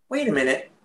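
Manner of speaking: hushed, stunned double take; hushed wait a minute; awestruck. Retold or imitated. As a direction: breathe it out in quiet amazement. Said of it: "you're just like".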